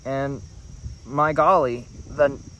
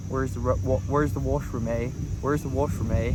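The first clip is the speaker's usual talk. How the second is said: Canadian accent. Shown as a demonstration. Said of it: "I slipped A's here and there".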